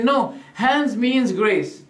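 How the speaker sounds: slow, deliberate "No, hands means grace."; quoted claim, slowed. Retold or imitated. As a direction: lay out their claim slowly as if quoting. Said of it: "Some people say".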